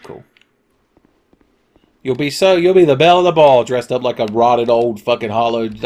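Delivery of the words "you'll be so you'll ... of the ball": mock flattery. Teasing his character.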